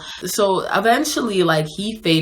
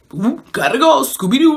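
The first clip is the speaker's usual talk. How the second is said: high-pitched zany cartoon exclamation; comic getaway; 9 semitones higher, 4 dB louder than usual. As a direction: blurt it like a cartoon character bolting. Acting out her comic getaway.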